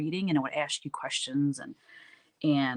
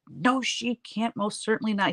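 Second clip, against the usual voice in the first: stern mom; 5 semitones higher than usual. Retold or imitated. Mom voiced in story.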